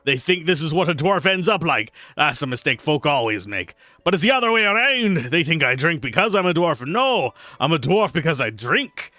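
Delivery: Torvin dwarf voice. Acted. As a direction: play the boisterous tavern brewer sizing up the newcomer. Reads drunk dwarf NPC lines.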